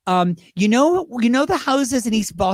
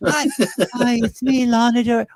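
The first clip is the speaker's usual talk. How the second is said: higher, eager caller; light take on a singer; singer impression; 4 semitones higher than usual. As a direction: introduce yourself hopefully. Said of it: "they'd have to say".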